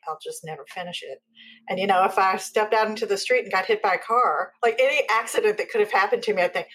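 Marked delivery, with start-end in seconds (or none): 0.1-1.2 much softer, almost gone, giving up; fading hopeless murmur. Retold or imitated. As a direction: let the line die away in defeat. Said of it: "I just thought".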